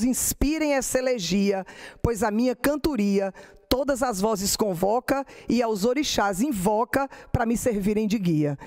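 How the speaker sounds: rhythmic cordel recital; poem recital. Acted. Teacher reading a cordel décima to the class, rhythmic recital. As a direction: let the décima roll on in steady verse.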